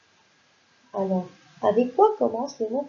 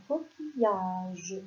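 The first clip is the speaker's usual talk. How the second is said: slow sounding out; 3 semitones lower, 4 dB quieter, much slower than usual. Shown as a demonstration. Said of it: "le mot coquillage va s'écrire".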